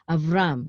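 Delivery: Avram with RAM stressed, av-RAM; stress on last syllable. Shown as a demonstration. Teacher showing where the accent falls, stress on RAM in Avram. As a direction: land hard on the RAM in Avram. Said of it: "is this the accent".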